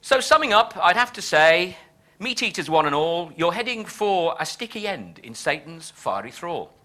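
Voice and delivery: verse read aloud with a firm, rhythmic beat; poem recitation. Acted. Scholar reciting a satirical poem to his audience, measured recitation.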